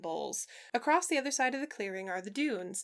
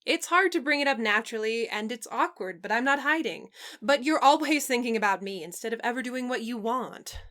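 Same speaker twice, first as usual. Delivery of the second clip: exasperated; 4 dB louder than usual. Acted. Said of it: "he says in exasperation".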